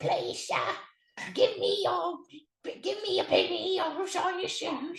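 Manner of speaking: very high, grubby, dirt-covered street orphan voice. Trying out a voice for an imagined character: dirt-covered orphan voice. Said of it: "it's like a dirt covered orphan".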